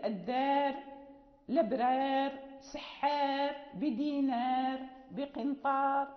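long alif in الدار، الأبرار، سحار tilted slightly toward "e"; Warsh taqlil. Shown as a demonstration. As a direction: say الدار as "ed-dēr", vowel held long. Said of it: "هذه كلها ممالة مقللة لإمامنا ورش".

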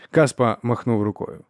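plain reading voice

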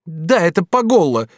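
with annoyance. Acted. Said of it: "с досадой проговорила Скотсонна".

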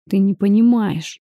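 usual speaking voice

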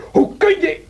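an indignant yelp; outraged cry. Acted. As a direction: burst out in shock and anger. Edgar bursts in angrily.

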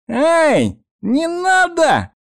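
very high, drawn-out, slow plea; desperate cry. Acted. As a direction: cry out in panic to stop him. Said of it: "отчаянно закричал первый голос".

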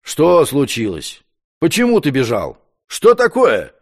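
usual speaking voice

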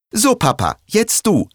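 put-on high child's voice, turning to his dad; eager young boy. Boy turning to dad, high child voice. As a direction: son telling his father it's his turn, high and eager.

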